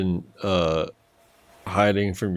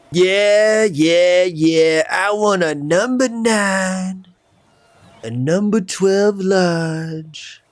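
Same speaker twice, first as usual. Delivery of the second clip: ordering customer; 9 semitones higher, 3 dB louder, much slower than usual. Pretend. Customer ordering at drive-thru.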